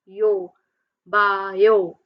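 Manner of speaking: BA and YO as separate beats; syllable by syllable. Shown as a demonstration. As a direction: sound out BA, then YO, with gaps. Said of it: "It means you have two vowel sounds".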